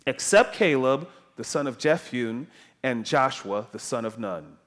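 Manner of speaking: emphatic, measured reading of God's judgment; scripture reading. Acted. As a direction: proclaim the verse in weighty phrases, falling at the ends. Reads God's words from scripture.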